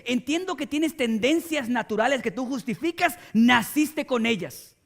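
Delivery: God demanding. Retold or imitated. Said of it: "Dios viene y te dice".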